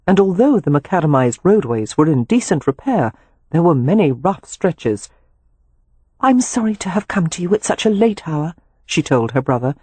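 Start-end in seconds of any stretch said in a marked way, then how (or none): 6.2-8.5 higher-pitched woman's voice; apologetic sister. A narrator's reading. Sister apologises to brother for late arrival, apologetic. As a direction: apologise in a lightly raised pitch.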